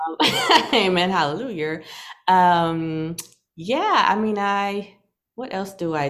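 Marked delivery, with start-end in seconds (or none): 0.2-0.7 short high burst of laughter; high bright laugh. Real, not acted. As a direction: let a quick high laugh out. Laughs at the amen.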